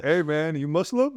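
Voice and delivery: rising mock challenge; playful high "you Muslim?"; teasing call-out. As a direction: jab him with a high teasing question. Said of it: "And I'm like".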